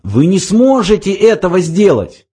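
high-pitched protest; crying out. A narrator's reading. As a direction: object urgently, voice lifted high. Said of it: "вскричала Триллиан".

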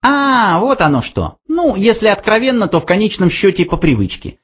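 high, fast mouse reply. A narrator's reading. Frankie answers Arthur, high fast mouse voice. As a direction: rattle it off.

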